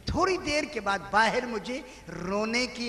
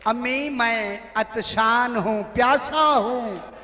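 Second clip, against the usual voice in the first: slow, drawn-out plea, louder on प्यासा; pleading cry; 5 dB louder, slower than usual. Acted. The child tells his mother he is thirsty, pleading.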